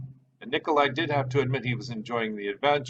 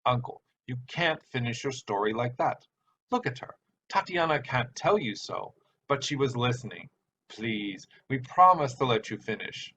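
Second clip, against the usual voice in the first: put-on pleading boy. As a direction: coax him to keep going. Alexei pleading with uncle.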